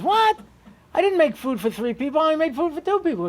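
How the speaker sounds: high-pitched, put-out protest; retold indignant objection; indignant wife. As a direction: imitate a wife caught unprepared, pitched well up. Wife objects to surprise guest.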